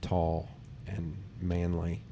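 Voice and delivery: slow lightly voiced flirty woman; a hint of a forward woman, slow; woman's come-on. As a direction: drawl it out like she's hitting on you. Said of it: "She was like".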